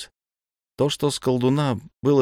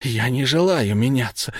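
outburst; 4 semitones higher than usual. A narrator's reading. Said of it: "выкрикнул Ирдегус".

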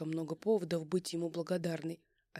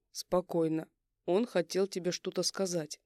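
calming voice; 3 dB louder than usual. Acted. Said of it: "говорит успокаивающим голосом".

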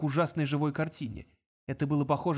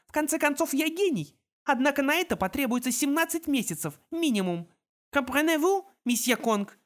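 higher, mocking girl's voice; sarcastic girl genius; 9 semitones higher, 3 dB louder than usual. A narrator's reading. Girl genius mocks her captor Kong, sarcastic. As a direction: lecture him like a smug prodigy. Minerva's long mocking speech.

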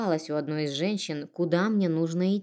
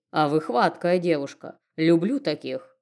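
sugary smirk; 4 dB louder than usual. Acted. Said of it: "слащаво ухмыльнулся мужчина".

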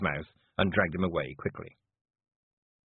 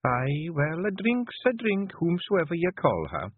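high, coaxing Scots wife; soothing; 10 semitones higher, slower than usual. A narrator's reading. Wife offering her husband a drink, soothingly. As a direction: soothe him in an unhurried lilt. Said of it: "said Jeanie soothingly".

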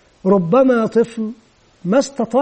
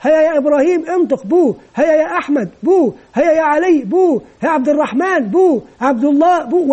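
put-on calling children by name; 4 semitones higher than usual. Shown as a demonstration. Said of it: "يكون قد عرف كل أسماء الأطفال".

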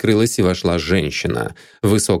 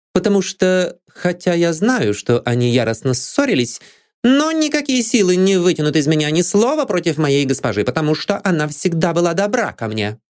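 high, fervent maid voice; loyal maid; 10 semitones higher than usual. A narrator's reading. Maid Anne refuses to speak against her lady. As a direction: defend your mistress fiercely.

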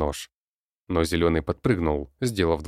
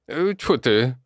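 higher, annoyed goblin spit-out; goblin spitting; 8 semitones higher, 5 dB louder, slower than usual. A narrator's reading. Goblin spits on boots after being corrected, irritated. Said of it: "сплюнул Зелёный".

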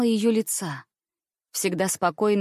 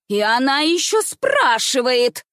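high, louder indignant shriek; shrieking cry; 4 semitones higher, 5 dB louder, slower than usual. A narrator's reading. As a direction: squeal out the outrage. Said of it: "вскричала, или, вернее, взвизгнула Бавария".

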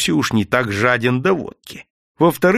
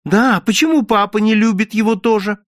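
put-on high, loud stubborn child; stubborn objection; 11 semitones higher, 5 dB louder than usual. A narrator's reading. Daughter stubbornly argues back to her mother. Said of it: "упрямо возразил ребёнок".

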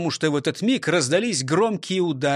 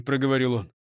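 usual speaking voice

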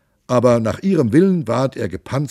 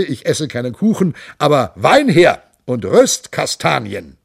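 a lightly voiced boisterous monk, raised and lively; jovial monk; 3 semitones higher, 4 dB louder than usual. The monk boasts to his companions, hearty and raised. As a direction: play the hearty monk bragging about his nose.

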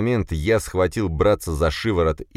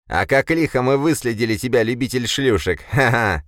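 growling gloat; 7 semitones higher than usual. A narrator's reading. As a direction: gloat and cackle at him. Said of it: "прорычал Борис".

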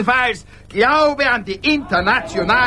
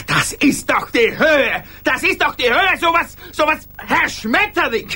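indignant astonishment; 4 semitones higher than usual. Acted.

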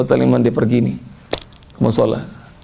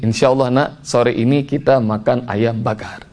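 put-on father promising child; 2 semitones lower than usual. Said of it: "saya ngomong begini".

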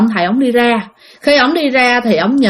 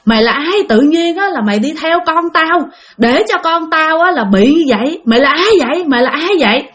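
mildly raised, higher-pitched demand; retold angry questioning of a spirit; confronting father; 5 semitones higher than usual. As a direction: challenge the intruder, pitch climbing. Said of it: "Cái ba mới nói rằng á là".

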